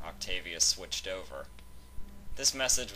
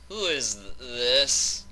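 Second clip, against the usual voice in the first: a lightly voiced man, higher, a bit startled; a caller asking who this is, lightly voiced; male voice on the phone; 6 semitones higher, 7 dB louder, slower than usual. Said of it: "a male voice said".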